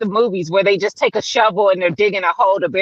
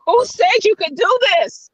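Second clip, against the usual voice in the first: high, laughing shout at herself; self-scolding; 10 semitones higher than usual. Retold or imitated. Host retelling being mad at herself while digging. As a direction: scold yourself half laughing. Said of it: "I was mad at myself".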